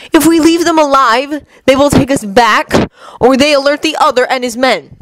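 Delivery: cold god Loki. Acted. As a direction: lay out the plan like a calm schemer. Loki voiced by reader.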